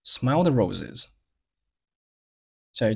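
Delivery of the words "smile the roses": "Smile the roses" with "Smile" stressed and "the" reduced; stress on first word. Shown as a demonstration. Teacher models "Smile the roses" for learners, first word stressed. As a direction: lean slowly on "Smile", slip over "the". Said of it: "Smile做了重读".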